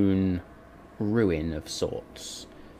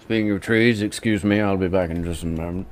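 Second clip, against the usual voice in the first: Callum voice; 5 dB louder, faster than usual. Acted.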